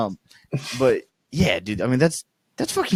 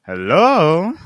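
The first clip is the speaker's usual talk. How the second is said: mock outraged hello; 5 semitones higher, 7 dB louder than usual. Reading angry text to roommate.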